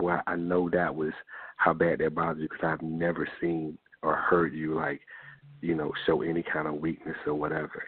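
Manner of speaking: plain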